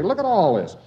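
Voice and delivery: a hint of an aggrieved local pointing at the rubble; mock German complaint. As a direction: act out a German grumbling at the visitor.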